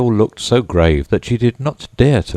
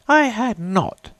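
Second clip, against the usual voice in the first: sharp angry cry; slower than usual. A narrator's reading. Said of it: "cried the Mouse sharply and very angrily".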